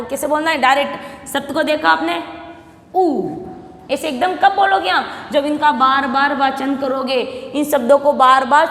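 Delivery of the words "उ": ordinary talk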